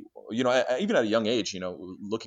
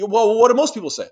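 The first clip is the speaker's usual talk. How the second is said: much higher and louder, mimicking his dodge; mocking the stranger; 12 semitones higher, 11 dB louder than usual. Retelling the random stranger's evasive reply, high and loud mock voice. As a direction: squeak the question back like a cornered stranger. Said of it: "and he just".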